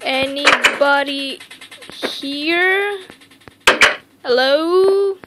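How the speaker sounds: calling out to anyone there. Real, not acted. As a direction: call into the dark building. Calling out in empty pizzeria.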